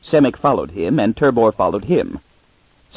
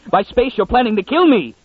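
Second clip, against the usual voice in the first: much higher, cracking snarl of terror; frantic snarl; 11 semitones higher than usual. A narrator's reading. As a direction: fling it out as a panicked scream-snarl. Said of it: "Munn snarled".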